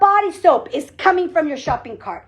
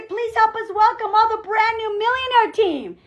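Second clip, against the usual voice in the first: high-pitched stage welcome; event announcer; 5 semitones higher than usual. Acted. Host bringing up the Millionaire team, as an announcer. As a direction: announce the winning team in a raised voice. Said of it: "then they're gonna say".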